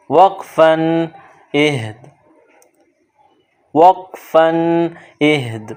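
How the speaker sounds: اہد said with the final sound silent; stopping on اہد. Shown as a demonstration. Teacher showing students the stop. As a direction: stop on اہد, drop the last letter. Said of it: "آخر والے حرف کو silent کر دیتے ہیں".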